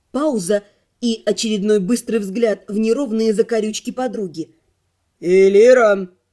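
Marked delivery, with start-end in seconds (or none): 5.2-6.1 sudden, strict, stern, raised voice. The magister suddenly addresses Elira while Lana is answering, strict, stern. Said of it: "неожиданно строго проговорил магистр".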